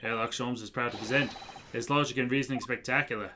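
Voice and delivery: a lightly voiced pompous detective; grand detective. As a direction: announce the spectacular with a flourish. Voices Sholmes' grand announcement.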